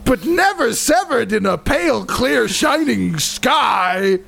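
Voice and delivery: high, slow, hammed-up Scottish recitation; drawn-out Scottish ogre verse; badly faked Scottish. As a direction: declaim Shakespeare in a mock Scottish accent. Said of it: "these are gonna sound exactly the same".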